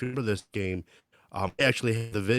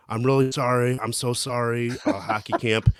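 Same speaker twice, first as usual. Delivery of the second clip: mock apology; 2 semitones higher, 5 dB louder than usual. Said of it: "I just went over to the bench and I go".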